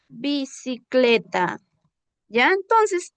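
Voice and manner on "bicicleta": slow dictation. Shown as a demonstration. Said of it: "vamos poniendo una".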